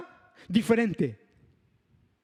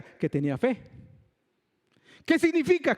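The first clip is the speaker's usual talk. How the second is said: usual speaking voice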